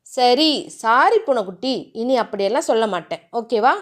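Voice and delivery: a hint of sweet pleading; tender apology. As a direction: coax her back gently. Husband apologises holding her.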